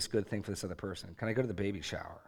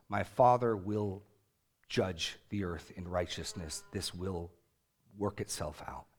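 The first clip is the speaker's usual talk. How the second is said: calm trust; 3 semitones lower, slower than usual. Retold or imitated. Quoting Jesus, calm trust.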